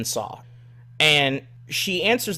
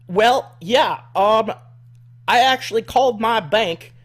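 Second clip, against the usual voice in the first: mock redneck woman; 6 semitones higher, 4 dB louder than usual. Caller explaining the bank charge, high redneck voice. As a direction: explain it like a huffy country caller. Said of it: "redneck woman".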